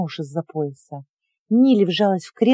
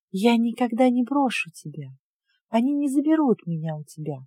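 reassuring; 3 semitones higher, 6 dB quieter than usual. Acted. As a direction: promise it gently. Creature reassures girl softly.

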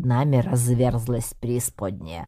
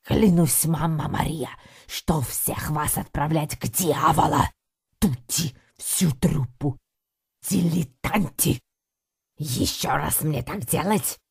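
indignant Italian threats; 3 semitones higher than usual. Acted. Balatelli threatens to send the troupe to the devil, Italian accent fury. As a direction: swear vengeance like a furious Italian boss. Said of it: "возмущённо засопел".

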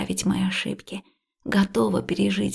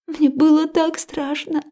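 slow, tearful and higher; through tears; 6 semitones higher, 3 dB louder than usual. A narrator's reading. Liya confessing her fear to Max, tearful. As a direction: let the fear spill out, crying. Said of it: "утопая в слезах".

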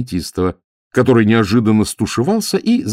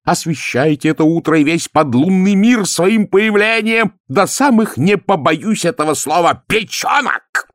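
high, louder, slow fawning speech; gushing flattery; 12 semitones higher, 4 dB louder than usual. A narrator's reading. Ametistov fawning over Count Obalyaninov, hammed-up. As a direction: lay on the flattery thick.

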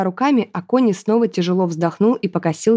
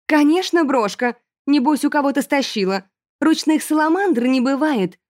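sneering aristocrat; 7 semitones higher than usual. A narrator's reading. Aristocrat mocking the girls, high scornful. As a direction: look down on the peasant.

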